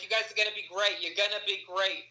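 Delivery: high, gushing encouragement; a moved stranger blessing the couple, high and gushing; gushing little lady. Retold or imitated. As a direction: cheer them on like a delighted stranger. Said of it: "She's like".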